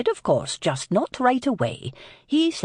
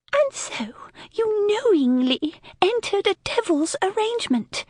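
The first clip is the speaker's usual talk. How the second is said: shaking voice. A narrator's reading. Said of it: "Dahlia's voice shook".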